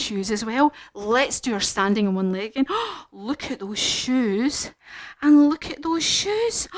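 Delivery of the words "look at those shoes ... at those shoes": amazed gasp. Acted. Admiring new shoes with gasp.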